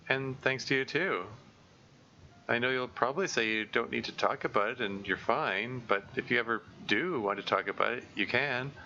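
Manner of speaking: light and bright hello; Monika's voice. Acted. Monika offers to listen.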